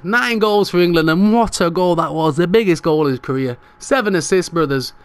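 breathless after celebrating; out of breath. Real, not acted. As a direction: talk between breaths. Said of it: "I can't breathe".

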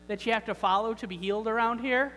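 self-important, lightly exasperated objector; mock protest. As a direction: explain the rules to someone who just doesn't get it. Acted lame man making excuses to Jesus.

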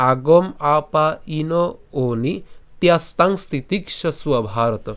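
slow, measured shloka with pauses between parts; verse recitation. Shown as a demonstration. Teacher reciting the shloka for learners, measured recitation. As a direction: recite the Sanskrit slowly, drawing out long syllables. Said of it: "অথবা".

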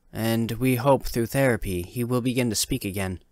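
a hint of a reassuring doctor giving a report; calm doctor. Narrator voices the doctor.

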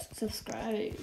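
whispered subscribe; whispered plug. Real, not acted. Asking viewers to subscribe, whispered plug. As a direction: breathe it like a secret.

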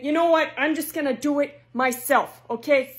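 loud exasperated mother; ranting at ungrateful kids; angry mom. Acted.

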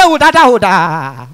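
stuck on "Da", last one dropping low; hammed-up stammer with hooting blocks; second stammerer struggling to get the word out. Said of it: "the first stammerer come dey answer am".

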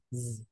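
a soft held zzz, teeth together; quiet vibrating Z buzz; voiced z hum; buzzing z sound. Shown as a demonstration. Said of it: "facciamo una piccola vibrazione".

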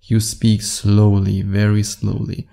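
calm confident man speaking slowly; slow and deliberate. Shown as a demonstration. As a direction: take your time over each word. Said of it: "as a confident man, you speak slowly".

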